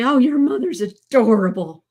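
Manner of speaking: imitated cooing, drawn out at the end; gushing nurses. Daughter quoting nurses about her mother, lightly gushing. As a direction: gush fondly, as if quoting admirers. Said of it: "they'd all say".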